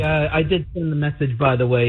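thin speakerphone audio; talking on speaker, away from the mic. Real, not acted. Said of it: "'Cause you sound like you're on a speakerphone".

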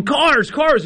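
put-on high, rising toddler whine, climbing with each word. Dad imitating his son whining for toy cars, rising pitch. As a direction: mimic a small boy getting upset over cars. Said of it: "his voice was elevating and elevating".

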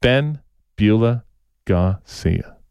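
low, slow sportscaster drawl; lightly done, low and slow boxing-announcer impression; Howard Cosell voice. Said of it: "in my Howard Cosell voice".

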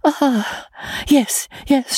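a touch of perplexity, slowly remembering; vaguely agree, mind still elsewhere; vacant, perplexed. A narrator's reading. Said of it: "still in a vacant, perplexed manner".

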